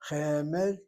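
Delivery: Chemed with the accent on the first syllable; Chemed, opening syllable accented; first-syllable stress. Shown as a demonstration. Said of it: "get the accent on the first syllable".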